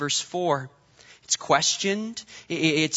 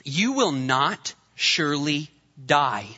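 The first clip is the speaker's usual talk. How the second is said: serpent's slow lie; 4 semitones lower, slower than usual. Retold or imitated. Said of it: "The serpent said to the woman".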